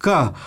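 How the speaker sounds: क said as a bare short syllable; sound demo. Shown as a demonstration. Teacher isolating the consonant sound क. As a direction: clip the sound क. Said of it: "मतलब क व्यंजन तो ये है".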